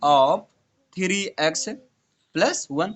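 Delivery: very slow dictation. Shown as a demonstration. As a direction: spell out the answer word by word, very slowly. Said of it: "teacher dictates the answer".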